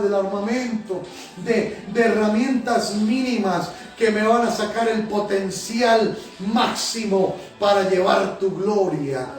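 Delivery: prayer with repeated Señor; fervent prayer. Acted. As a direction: pour it out to God, pleading, line after line. Pastor leads a fervent prayer.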